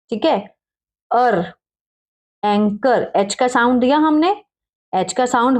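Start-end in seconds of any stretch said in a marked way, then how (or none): 2.4-3.1 एंकर with plain k and no h; silent h. Shown as a demonstration. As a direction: leave the h out of एंकर. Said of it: "ह का sound नहीं दिया". (ह चुप रखकर एंकर)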